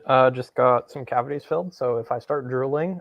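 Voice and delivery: speaking with a numb mouth; words slurred by a numb mouth; numb from the dentist. Real, not acted. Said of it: "my mouth is very numb over here".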